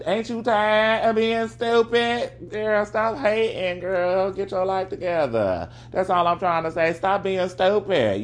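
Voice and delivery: high, slow, drawn-out sassy plea; exasperated pleading. Real, not acted. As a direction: plead with her like she should know better. Pleading with the listener to stop hating.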